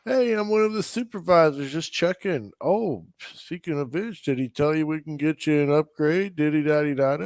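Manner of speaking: mock-chummy sales supervisor, lightly put on; lilting, falsely friendly pitch in imitation; happy-wappy supervisor. Installer's supervisor pitching Carrie an upgrade, mock happy-wappy. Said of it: "came out to play all happy wappy".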